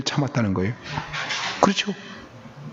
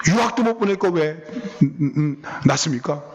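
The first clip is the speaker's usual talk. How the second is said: mock grievance, pitched up; retold complaint; 3 semitones higher than usual. Child blames parents over study abroad, mock reproach. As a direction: imitate an ungrateful child's reproach.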